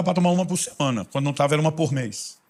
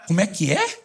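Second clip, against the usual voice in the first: mock disbelief; 5 semitones higher than usual. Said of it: "Eu fico imaginando o Espírito Santo dizer".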